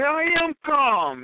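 slow, high insistence that he's calm; excited denial. Retold or imitated. Answering his driver a second time: slow, high, wound-up denial. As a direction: drag it out, clearly still wound up. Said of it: "Why are you screaming?".

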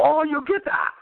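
imitating Jimmy. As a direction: nudge him until he laughs at the punchline. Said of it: "He go".

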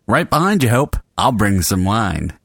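demonstrated line read, lifted then falling; showing how it's done. Shown as a demonstration. Director showing Kat her line, demonstrative read. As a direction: show the actress a livelier read. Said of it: "let me show you how it's done".

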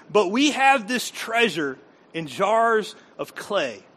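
slow, deliberate reading of the verse; solemn Bible reading; scripture reading. Real, not acted. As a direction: lay each word down. Reads scripture.

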